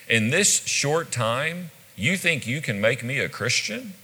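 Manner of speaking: doubt him with a touch of mockery; a little sarcastic. Shown as a demonstration. Agrippa counters Paul's challenge, read mildly sarcastic. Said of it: "A little more sarcastic is".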